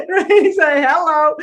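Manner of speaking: excited. Real, not acted. Punchline after chapter title.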